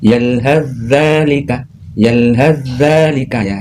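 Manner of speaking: drawn-out yalhaz zalika, zz merged; slow yalhaz zalika, h into doubled zz; slow recitation demo. Shown as a demonstration. Teacher repeating the example slowly to students. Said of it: "Contoh bacanya seperti".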